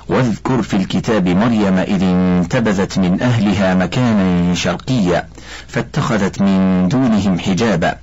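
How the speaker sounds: slow melodic chanted recitation with long held vowels; Quran recitation. Acted. Sheikh recites the Quran verses about Maryam, slow melodic chant. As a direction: chant the verses slowly, drawing out each line's end.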